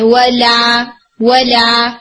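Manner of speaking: ولا with a thin, light L, not heavy; light lam. Shown as a demonstration. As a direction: keep the ل in ولا light and spread. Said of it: "آپ اسے light رکھیں". (ولا کا لام ہلکا اور باریک)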